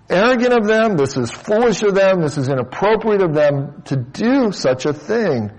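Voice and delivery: each charge stressed, starting high and easing down; emphatic rebuke. Retold or imitated. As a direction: hit "arrogant", "foolish" and "inappropriate" as Paul's reproach. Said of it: "he's emphasizing here that this is".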